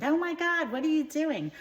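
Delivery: high-pitched, hammed-up scolding; screaming mother. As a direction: scold your child as a shrieking mother. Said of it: "My mother screamed".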